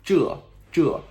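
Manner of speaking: 这 high and loud, like "juh"; J-sound 这. Shown as a demonstration. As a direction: repeat 这 with a J and falling tone. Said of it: "like a J sound".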